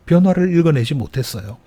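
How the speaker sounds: urgent plain restatement. Shown as a demonstration. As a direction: lift the voice to drive it home. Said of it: "preacher repeats key point".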